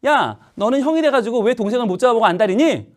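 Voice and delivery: acted, exasperated nagging; scolding mother. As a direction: imitate a mother telling off the older child. Acts mother scolding older son.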